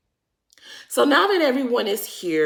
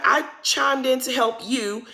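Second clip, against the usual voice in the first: retold annoyance; 4 semitones higher than usual. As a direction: imitate an annoyed friend, pitched up a bit. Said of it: "Candace is very much annoyed".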